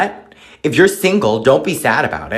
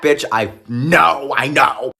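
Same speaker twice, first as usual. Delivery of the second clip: slow shout; slower than usual. Real, not acted. Shouted agreement.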